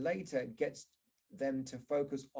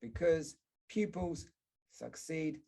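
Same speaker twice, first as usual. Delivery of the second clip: because, pupils, succeed each said with its stressed syllable punched; careful teacher demo of word stress; 3 semitones higher, slower than usual. Shown as a demonstration. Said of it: "So we get the words like".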